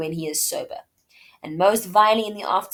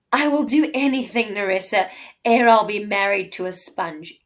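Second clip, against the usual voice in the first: emphatic vow; 2 semitones higher, 5 dB louder than usual. Acted. Portia's vow read out.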